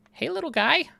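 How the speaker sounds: high cutesy hello; squeaky high greeting. Acted. Talking to a bee.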